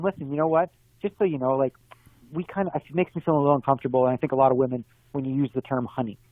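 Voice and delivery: calm polite request. Retold or imitated. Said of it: "Say to him".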